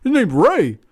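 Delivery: high, slow, exaggerated correcting tone, pitched well up; correcting a friend about the wrestler's name, in a drawn-out mock voice; mock exasperation. Telling Harper the name is Ray, high and hammed-up. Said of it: "I mean".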